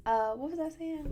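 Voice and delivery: talking with a dry mouth; parched, needs water. Real, not acted. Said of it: "my mouth is dry".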